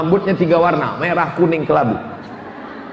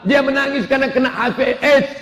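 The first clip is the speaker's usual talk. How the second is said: firm father; 5 semitones higher than usual. Retold or imitated. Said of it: "akhirnya si bapak tegas".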